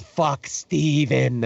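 drawn-out mock yell, held back in volume; imitated yell. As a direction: stretch it like a retold shout. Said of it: "I think you yelled".

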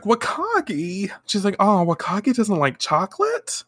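coy flirting. Retold or imitated. Sailor V flirting with the detective, lightly voiced coy coo. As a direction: bat your lashes with your voice. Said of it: "starts twirling her hair".

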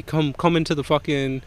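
high, loud mock yell of an angry boss; retold yelling. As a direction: yell it like the boss calling him out. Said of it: "Then she's yelling at me".

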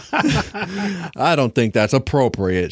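slow, firm refusal. Acted. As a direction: say it firmly and slowly. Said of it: "she says firmly".

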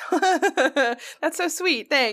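slow, touched laugh. Real, not acted. Laughing as she thanks her friend for defending her.

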